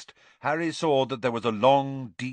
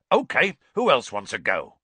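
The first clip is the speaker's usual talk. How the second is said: raised voice to a class; Hagrid calling out; 2 semitones higher, 5 dB louder than usual. A narrator's reading. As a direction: call out for the next volunteer.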